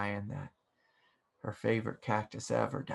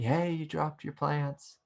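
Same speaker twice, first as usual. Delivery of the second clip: higher, drawn-out mild mock yell; retold yell; 5 semitones higher, slower than usual. Stranger in a car alerts dad to dropped plants, mock yelling. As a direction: imitate someone calling out, slowly and higher. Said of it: "someone in a car is yelling at me".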